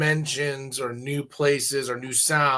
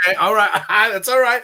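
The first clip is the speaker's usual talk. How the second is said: laughing; 6 semitones higher, 7 dB louder than usual. Real, not acted. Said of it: "laughing it off".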